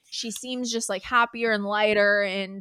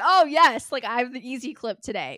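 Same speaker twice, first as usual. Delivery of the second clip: excited; 3 semitones higher than usual. Retold or imitated. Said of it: "I was like".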